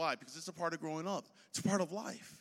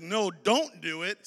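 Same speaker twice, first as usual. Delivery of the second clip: slow, loud warning; 7 dB louder, much slower than usual. Acted. Preacher voicing God's warning.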